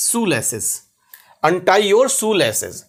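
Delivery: very slow, careful word by word; slow model phrase. Shown as a demonstration. Teacher slowly models English for Hindi learners. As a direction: spell it out in sound for learners. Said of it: "teacher models English phrase".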